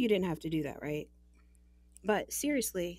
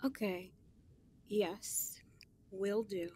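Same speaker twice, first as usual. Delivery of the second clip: whisper; 6 dB quieter, slower than usual. Acted.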